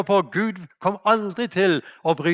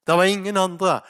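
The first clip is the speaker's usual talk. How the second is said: normal talking voice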